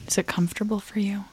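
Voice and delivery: whispering. Acted. Mock whisper question.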